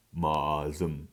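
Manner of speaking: ma zum with a low chest vowel; low chest sound. Shown as a demonstration. Teacher sounding out the Middle Korean word ma zum. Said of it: "It's kind of lower in the, in the chest".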